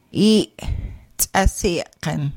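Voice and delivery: "tsasiken" after a cut-off y; abruptly ended y. Shown as a demonstration. Teacher modelling glottal Y for learners, cut-off y. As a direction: cut the y short. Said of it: "Glottal Y and abruptly ended Y".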